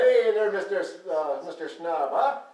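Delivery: cheesy fake Irish accent; bad Irish accent. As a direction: lay on a hammy stage-Irish brogue. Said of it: "That is the worst Irish accent I've ever heard".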